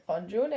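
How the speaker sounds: the name with an open O-like first vowel; O-sound pronunciation. Shown as a demonstration. Fan sticking to the choice, the name said with an O sound. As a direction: say the name as if written "Ronjun". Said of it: "it's pronounced like an O".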